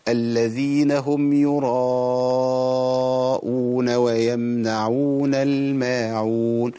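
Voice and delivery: slow chanted recitation, long vowels held; Quran recitation. Shown as a demonstration. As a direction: recite it carefully, stretching the vowels. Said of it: "أقول".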